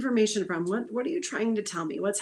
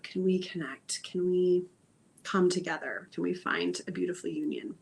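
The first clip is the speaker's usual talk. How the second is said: soft apology to the body; 2 semitones lower than usual. Acted. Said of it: "first of all, maybe".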